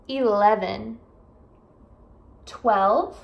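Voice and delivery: each number said twice, slow and clear; careful repetition. Shown as a demonstration. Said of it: "eu vou repetir duas vezes".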